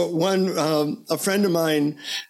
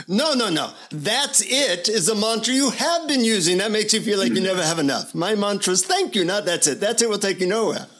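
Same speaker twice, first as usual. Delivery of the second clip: higher, emphatic Indian guru voice; imitated Indian guru, insistent and pitched up; Indian accent; 5 semitones higher than usual. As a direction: correct the pupil in an Indian accent. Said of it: "he says in his Indian accent".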